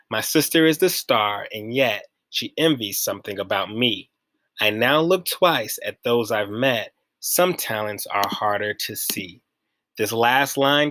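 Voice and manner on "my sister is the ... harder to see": measured reading of a closing stanza; poem reading. Acted. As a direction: read the verse line by line, settling at the end. Reads a poem aloud.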